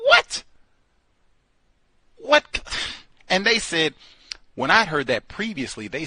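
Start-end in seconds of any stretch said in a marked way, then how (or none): 0.1-2.6 very high, loud what; shocked what. Real, not acted. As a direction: squeal it in disbelief. Shocked disbelief.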